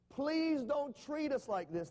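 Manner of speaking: high, slow, pleading plea; desperate foremen begging the king. A narrator's reading. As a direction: beg Pharaoh for mercy. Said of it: "they begged".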